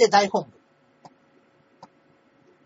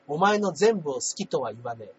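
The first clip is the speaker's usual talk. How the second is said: cheesy romantic line; 2 semitones lower than usual. Acted. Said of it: "歯が浮くセリフ".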